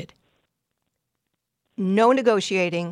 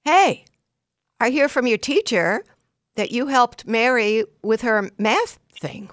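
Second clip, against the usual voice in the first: praising parent; 4 semitones higher, 3 dB louder than usual. Pretend. Parent greeting daughter with a teacher's good report, delighted praise. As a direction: cheer the child on like a proud parent.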